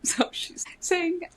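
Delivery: whisper. Real, not acted. Whispered aside.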